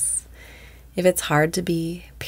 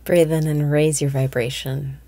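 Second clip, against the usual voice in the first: guided meditation. Acted. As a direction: lead the inhale calmly, pausing after each phrase. Opens a daily meditation.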